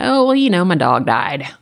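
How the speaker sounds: high, loud chirpy start dropping to blunt news; forced breeziness. Retold or imitated. Telling the mail clerk her dog died, forced breezy tone. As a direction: chirp it then drop the bomb.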